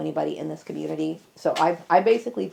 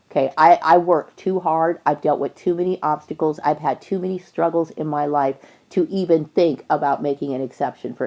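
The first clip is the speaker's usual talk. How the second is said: real, louder and forceful; emphatic insistence; 8 dB louder than usual. Real, not acted. Speaker insisting on past struggles, emphatic and loud. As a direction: hammer out each hardship loudly.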